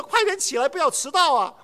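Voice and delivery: put-on urgent call to wake up kids; hurried call. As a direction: hurry them out of bed. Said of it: "我就心里很急了".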